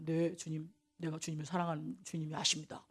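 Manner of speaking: humbled answer. Acted. Peter's humbled answer to Jesus.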